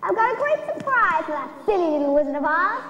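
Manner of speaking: lightly voiced gloating witch; wicked witch. The witch gloating over Dorothy, mildly sneering witch voice.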